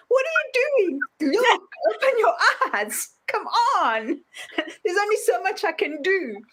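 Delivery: very high, laughing exasperation; exasperated universe. Retold or imitated. Universe scolding blind humans, high and laughing. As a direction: plead with them to open their eyes.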